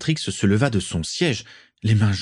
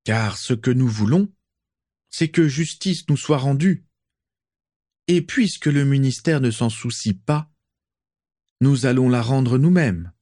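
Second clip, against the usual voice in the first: rousing call; 5 semitones higher than usual. Acted. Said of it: "en brandissant son poing serré".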